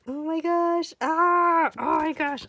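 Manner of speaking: high-pitched delighted squealing; excited gushing. Real, not acted. Fan admiring color pencil skills, excited squealing. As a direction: gush high, overwhelmed with excitement.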